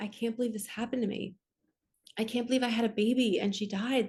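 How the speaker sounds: sobbing, crying, disbelieving lament. Recalling sitting in front of a mirror after losing a baby, imitating own past crying. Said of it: "literally crying, going".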